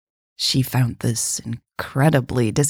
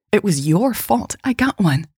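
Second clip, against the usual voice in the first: firm accusation, pitched up; 6 semitones higher than usual. A narrator's reading. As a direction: put the blame firmly, voice raised in pitch. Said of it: "Michelle said firmly".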